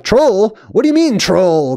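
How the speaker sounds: high-pitched mock disbelief on the retold question; incredulous officials. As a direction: mimic baffled officials, pitch lifted. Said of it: "they're like".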